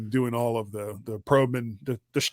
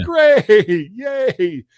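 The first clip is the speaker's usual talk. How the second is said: sarcastic; 9 semitones higher, 10 dB louder than usual. Retold or imitated. Sarcastic reply to late mouthwash.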